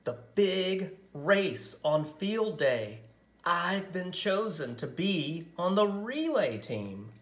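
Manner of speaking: a lightly voiced thrilled young girl; excited girl. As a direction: tell it like the best news ever. Excited girl announcing news.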